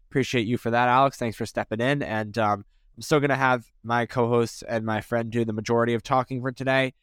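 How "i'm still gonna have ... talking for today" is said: muffled after oral surgery; talking carefully with sore mouth; swollen jaw speech. Real, not acted. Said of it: "I'm like Michael Jordan in his flu game".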